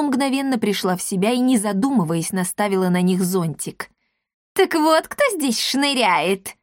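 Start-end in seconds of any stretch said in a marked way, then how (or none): 4.5-6.6 high, slow caught-you cry; shout. A narrator's reading. The witch catches the intruders, crying out. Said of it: "крикнула она".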